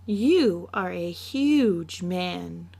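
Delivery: put-on a child in awe of her big papa; little girl. Child questions father.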